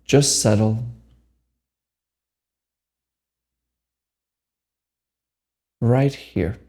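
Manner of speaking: measured meditation guide with long pauses; unhurried phrases, each left to settle; guided meditation. Acted. Meditation teacher guides listeners to let go, guided meditation.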